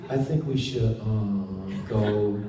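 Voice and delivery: lightly mimicked rapid English talk; a hint of fast British dialogue; quick English chatter. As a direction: rattle it off like a Brit in a hurry. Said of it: "Buffy be like".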